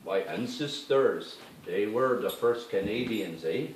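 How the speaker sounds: unhurried, solemn claim of ancestry; native elder. Retold or imitated. Native people claiming they came first, in a slow solemn voice. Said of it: "before that are the native Indians".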